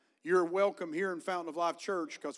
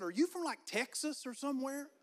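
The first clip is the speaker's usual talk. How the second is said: curious drive-through lady; 8 semitones higher, 3 dB quieter than usual. Retold or imitated. Drive-through lady asks about accent.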